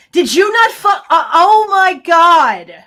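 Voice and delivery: loud, high, slow words through real laughter; shocked nervous laugh. Real, not acted. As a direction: laugh it out in stunned disbelief. Reacts to the sound, laughing.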